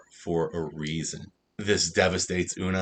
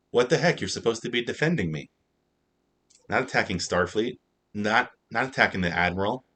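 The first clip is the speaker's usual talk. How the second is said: mock exasperation; 3 semitones higher than usual. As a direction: voice Pike, baffled that his lawyer turned on his friend. Pike's imagined exasperation.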